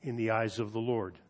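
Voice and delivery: unhurried Bible reading aloud; scripture reading. Acted. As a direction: read the passage with solemn weight. Scripture reading before the sermon.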